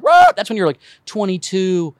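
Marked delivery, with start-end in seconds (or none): 0.0-0.3 high, loud mock dog bark. Comic barks like a dog to show the five-minute panic. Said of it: "that five-minute bark".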